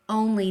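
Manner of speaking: Only stressed alone; stressed word. Shown as a demonstration. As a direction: hit Only hard to make a point. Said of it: "Notice that exclusive word".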